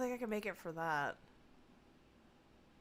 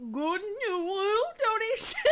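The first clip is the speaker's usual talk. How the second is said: high, slow squeaky VTuber voice; cute anime streamer; 13 semitones higher, 8 dB louder, slower than usual. Pretend. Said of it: "my Lorne voice with, like, an, a, a VTuber voice".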